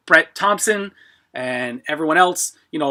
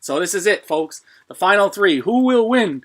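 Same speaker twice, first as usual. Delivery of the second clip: hyped giveaway announcement; 4 semitones higher than usual. Real, not acted. Livestream giveaway draw build-up.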